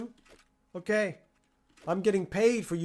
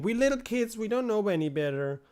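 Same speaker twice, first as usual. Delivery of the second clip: mock innocent kid; 4 semitones higher than usual. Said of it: "they also wanna be little innocent".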